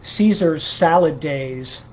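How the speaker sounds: measured, deliberate poem recital; poetry reading. Acted. Poet reading improvised morning poems to a livestream, measured recital. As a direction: read it line by line, pausing between phrases.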